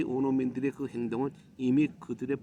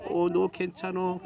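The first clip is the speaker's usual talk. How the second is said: mock-panicked parent, raised pitch, loud; imitated tearful fussing; 5 semitones higher, 7 dB louder than usual. Overprotective parent fussing over a child, mock wailing. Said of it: "그냥 막 울고 불고".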